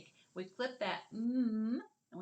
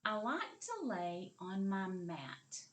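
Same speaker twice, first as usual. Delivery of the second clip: slow model sentence; slower than usual. Shown as a demonstration. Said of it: "The next sentence".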